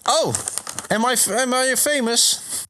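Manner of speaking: high-pitched polite creature voice; Venomoth. Acted. Moth Pokemon greets a man at his door, high voice. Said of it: "I am Venomoth".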